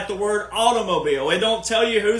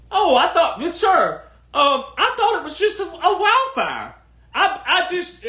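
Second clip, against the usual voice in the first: high, halting, fake-innocent reporter; higher, hesitant mock-innocent voice; mock flustered reporter; 9 semitones higher than usual. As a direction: play a flustered reporter caught off guard.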